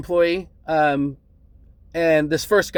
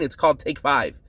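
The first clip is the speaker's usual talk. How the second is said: condescending. Retold or imitated. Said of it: "like I was being stupid".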